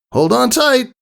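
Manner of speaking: high, breezy, cocky tomboy voice. Acted. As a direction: toss it off with a grin. Rainbow Dash call.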